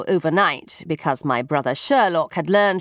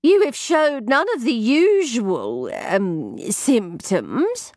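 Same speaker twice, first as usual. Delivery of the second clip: delicate housekeeper; 4 semitones higher, slower than usual. A narrator's reading. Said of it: "elaborated Missus Fitzsimmons".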